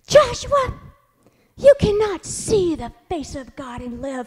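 put-on high, slow, grave voice of a small child; mock solemn warning. Mother imitates a child warning his brother. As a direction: intone it like a tiny preacher. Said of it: "and he goes".

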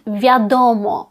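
в'ядомо said very slowly; original Polish word. Shown as a demonstration. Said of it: "перекручене слово від".

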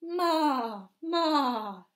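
loud bleating goat. Acted. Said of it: "said the goat".

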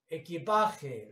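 "equipaje" with the A stressed, then falling. Shown as a demonstration. Teacher pointing out the tonic vowel, stressed A. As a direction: lean on PA in "equipaje". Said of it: "la A".

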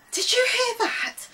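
high, loud startled question; panted question. A narrator's reading. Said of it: "he panted".

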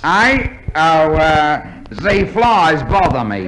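hesitant fake French accent; mock French accent. Fake fencer explaining his mask to an inspector, mock French accent. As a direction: stall for an excuse in phoney French. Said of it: "the famous French fencer".

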